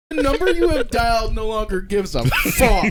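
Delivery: high, loud robotic operator voice; automated phone message. Pretend. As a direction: read it like a phone recording. Phone recording parody.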